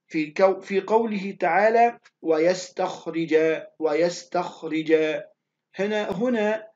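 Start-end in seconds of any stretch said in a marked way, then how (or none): 2.2-4.9 "ويستخرج" recited slowly with a thickened "خ"; heavy KHA. Shown as a demonstration. Teacher reads a Quran example to students, "ويستخرج" slow with heavy "خ". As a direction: draw out "ويستخرج", filling the mouth on the "خ". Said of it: "حرف الخاء حرف تفخيم".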